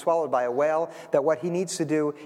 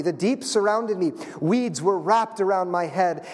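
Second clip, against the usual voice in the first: solemn scripture reading. Acted. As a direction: read it like sacred poetry, lingering on each image. Reads scripture passage aloud.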